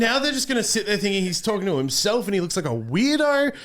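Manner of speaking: loud, high, laughing mock complaint at his co-host; laughing mock scolding. Real, not acted. Scolding his co-host, laughing, for breaking camera immersion, loud and high. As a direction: tease him, laughing, for breaking the illusion.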